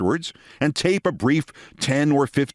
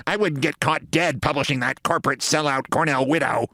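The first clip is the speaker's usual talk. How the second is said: snorting contempt. Retold or imitated. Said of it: "he snorts and says".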